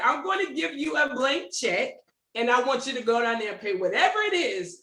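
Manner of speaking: giggling through the retold offer, a touch mocking; amused, half-laughing boast about the blank check; laughing retold plan. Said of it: "they try to have me like this".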